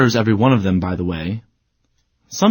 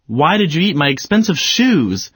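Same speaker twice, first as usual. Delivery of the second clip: exclamatory; 4 semitones higher than usual. Shown as a demonstration. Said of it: "exclamation point, not a question mark".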